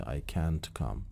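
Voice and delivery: "can't" with a full open a as in "cat". Shown as a demonstration. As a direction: keep "can't" unreduced.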